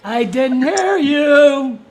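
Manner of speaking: loud, slow barking sergeant; drill sergeant. Pretend. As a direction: bark like a drill instructor. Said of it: "Yes, Drill Sergeant".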